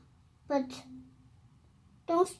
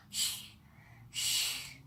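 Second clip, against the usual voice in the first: shushing; 14 dB quieter than usual. Acted. Hushing so Mama sleeps.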